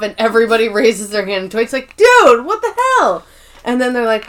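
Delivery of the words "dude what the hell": high, loud disbelieving yell; exasperated outburst. Retold or imitated. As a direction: throw your hands up in outrage. Dwight exasperated at coworkers.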